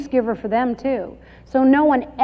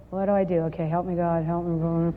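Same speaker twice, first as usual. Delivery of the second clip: desperate prayer; 6 semitones lower, 6 dB quieter than usual. Retold or imitated. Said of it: "you're like this".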